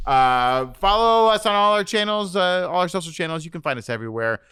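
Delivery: upbeat show sign-off; host outro. Acted. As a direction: wrap up the episode like a host.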